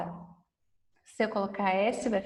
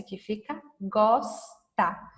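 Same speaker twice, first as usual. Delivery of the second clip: slow and clear; slower than usual. Shown as a demonstration. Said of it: "eu vou colocar o S".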